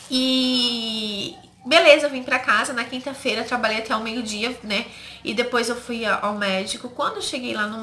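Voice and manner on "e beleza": voice breaking. Real, not acted. Voice breaks retelling the miscarriage.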